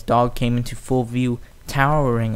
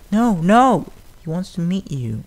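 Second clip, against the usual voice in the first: loud, higher urgent cry; cried out; 7 semitones higher, 4 dB louder than usual. A narrator's reading. Fluttershy stopping the fillies from fleeing, loud cry. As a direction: call out to stop them. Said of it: "Fluttershy cried".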